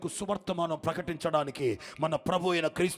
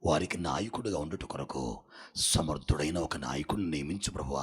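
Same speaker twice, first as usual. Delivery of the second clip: low, breathy whispered plea to God; lower, hushed voice of humble prayer; 12 semitones lower than usual. Retold or imitated. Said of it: "అని ప్రార్థన చేస్తున్నాడు".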